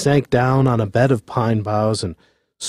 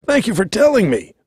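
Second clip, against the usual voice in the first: condescending president; 7 semitones higher than usual. A narrator's reading. President answers the bear.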